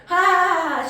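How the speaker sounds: high, loud mock laughter; a friend laughing off a question about doing dishes; imitated laugh. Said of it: "She started laughing".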